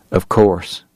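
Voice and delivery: understated even reply; evenly. Acted. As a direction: keep it even, no edge. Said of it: "Holliday said evenly".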